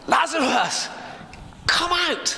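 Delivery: Jesus shouting into the dark tomb, commanding. A narrator's reading. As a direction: call into the tomb, pitch soaring high. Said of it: "And Jesus shouts".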